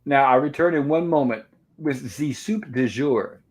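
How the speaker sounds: slow, hammy fake French; American doing bad French, drawn out; bad French accent. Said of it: "very bad Americans impersonating French".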